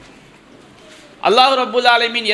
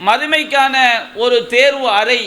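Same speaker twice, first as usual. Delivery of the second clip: preaching; 2 semitones higher than usual. Acted. Impassioned sermon point.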